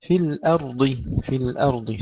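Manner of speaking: الأرض with thin opening hamza, full ر and ض; light hamza, heavy ending. Shown as a demonstration. Tajweed teacher modelling for students, careful light-then-heavy الأرض. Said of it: "ترقيق الهمزة وتفخيم".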